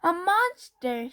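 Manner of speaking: high, slow scared cry of monster; startled awake and terrified; a hammed-up fearful shout; frightened shout. A narrator's reading. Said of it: "shouted Baby".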